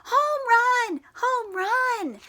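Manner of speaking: high, joyful shout. Acted. Froggy stomping home plate and shouting, high. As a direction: cheer it out.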